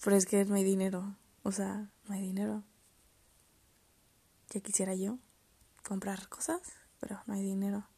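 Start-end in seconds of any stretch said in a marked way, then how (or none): 1.4-2.6 whispered aside. Real, not acted. Aside about having no money. 4.5-7.9 whispered aside. Real, not acted. Aside about having no money.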